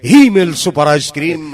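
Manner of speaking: loud slogan. Shown as a demonstration. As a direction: punch out the slogan. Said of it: "slogan repeated".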